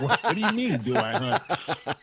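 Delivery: high, slow, laughing "do I hunt?"; mock outrage, drawn out through a laugh; laughing disbelief. Speaker answering the question of whether he hunts, laughing mock disbelief.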